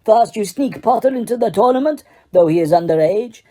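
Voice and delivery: a heated, hammered-out tirade; furious accusation. Acted. Karkaroff accusing Dumbledore of a plot, heated tirade. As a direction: rant at him, building scorn.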